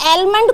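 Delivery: एलमंड with "el" at the front; mispronounced with L. Retold or imitated. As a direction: quote the learners' एलमंड, starting like the letter L. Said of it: "कोई बोल रहा था".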